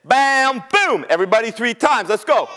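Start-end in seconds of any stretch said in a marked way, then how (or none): 0.0-1.1 echoing bam boom. Acted. Club and shell echoing in the log, booming. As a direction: imitate thuds echoing inside a log. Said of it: "came out like this".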